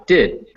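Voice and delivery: Did with a lax, short vowel; short relaxed I. Shown as a demonstration. Teacher confirming a student's attempt, "Did" with short I. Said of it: "Just relax your I".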